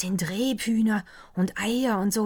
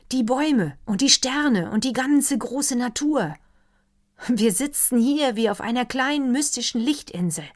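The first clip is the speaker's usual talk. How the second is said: a lightly voiced doctor, higher and louder, carried away; enthusiastic doctor; 7 semitones higher, 6 dB louder than usual. Doctor raving to the counts over dinner, higher and louder. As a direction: let the doctor gush over the dark forest.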